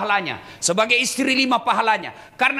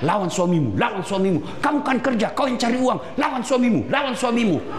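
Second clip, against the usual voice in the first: devil's coaxing whisper, acted lightly; a light hint of Satan tempting. Satan tempting the wife to defy her husband, lightly coaxing. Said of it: "Itu bisikan setan".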